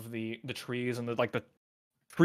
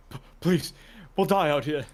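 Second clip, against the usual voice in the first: stammered, slightly raised begging; panicked plea; 3 semitones higher, 4 dB louder than usual. Acted. Graham begging the group not to leave them, panicked. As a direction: plead with a catch on the first word. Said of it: "Graham looks panicked".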